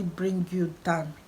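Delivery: slow, breathy whisper of encouragement; a hushed, slow whisper to the viewers. Real, not acted. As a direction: lean in and whisper it slowly, like a secret.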